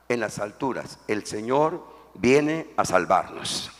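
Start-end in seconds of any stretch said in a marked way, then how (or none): 1.1-3.7 slow, deliberate el Señor viene a salvarnos; slow model line. Shown as a demonstration. Preacher modelling the line for congregation, slow. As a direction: spell it out slowly for them to repeat. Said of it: "Diga, el Señor viene a salvarnos".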